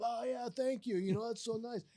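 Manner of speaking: mock-bashful delighted thanks; eating it up. Manager thanking his boss on the phone, lapping it up. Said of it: "I'm just eating it up".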